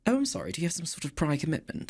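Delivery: dry British sarcasm. Retold or imitated. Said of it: "the driest British sarcasm you can think of".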